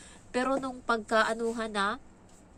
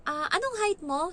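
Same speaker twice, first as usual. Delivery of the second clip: imitating the Hong Kong agent asking; mock interviewer; 8 semitones higher than usual. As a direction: quiz her height, a bit taken aback. Agency interviewer questions her height.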